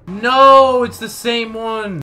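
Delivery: high, loud, drawn-out wail; exasperated high outburst; dismayed cry. Real, not acted. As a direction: cry out in frustration, stretching it slowly. Dismayed at repeat find in game.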